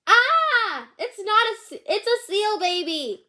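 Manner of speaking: high panicked cry; startled parent shrieking; shriek of alarm. Acted. Parents discover wrong baby.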